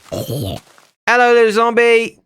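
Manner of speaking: high, sweet voice for the zombie; cutesy greeting. Acted. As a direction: coo at it like a pet.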